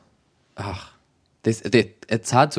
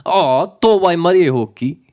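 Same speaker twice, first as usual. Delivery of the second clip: envious; 8 semitones higher, 4 dB louder than usual. Shown as a demonstration. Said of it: "'cause that's just like".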